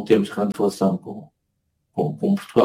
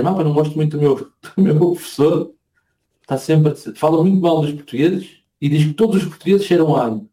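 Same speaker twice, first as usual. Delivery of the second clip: scandalized wife; 5 semitones higher than usual. Retold or imitated. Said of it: "veio muito escandalizada".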